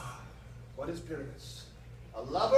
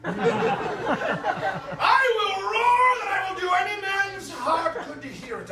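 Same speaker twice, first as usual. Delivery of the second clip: shouting; 6 semitones higher, 3 dB louder than usual. Acted. Boasts of his roar, shouting.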